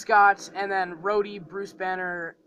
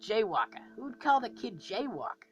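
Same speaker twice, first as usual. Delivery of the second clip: Rocket; 3 semitones higher than usual. Acted. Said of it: "but I'm voicing Rocket".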